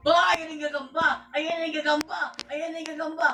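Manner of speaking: excited shout. Real, not acted. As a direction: yell out the spider sighting. Spotting the spider in game.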